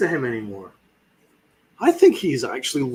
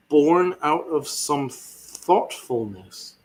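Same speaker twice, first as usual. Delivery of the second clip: mocking quote; much slower than usual. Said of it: "and I quote".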